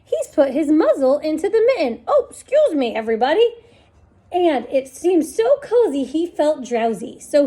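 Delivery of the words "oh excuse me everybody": fox voice. Acted.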